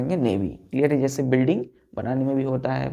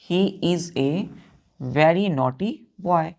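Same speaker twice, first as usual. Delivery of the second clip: slow repeated example; much slower than usual. Shown as a demonstration. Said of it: "जैसे हमने बोला कि".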